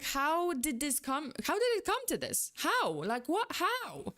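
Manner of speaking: high, rising cries of how in mock outrage; imitating stunned outrage at the team; exasperated disbelief. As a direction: retell your own bafflement with a pitch jump. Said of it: "So I'm like".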